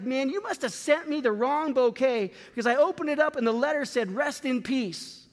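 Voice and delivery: mild mock anger. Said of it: "he's all angry to the florist".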